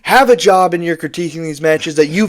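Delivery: high-pitched indignant venting; exasperated rant. Real, not acted. Ranting at online match critics.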